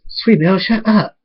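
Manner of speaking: mildly exasperated shushing; exasperated scolding. Acted. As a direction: tell off a noisy kid without shouting. Scolding noisy Sweetbell at wedding.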